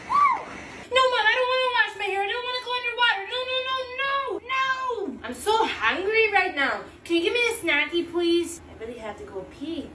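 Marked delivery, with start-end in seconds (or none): 0.0-8.6 put-on higher pitched child voice, petulant; whiny little kid. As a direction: play a demanding little kid in the bath.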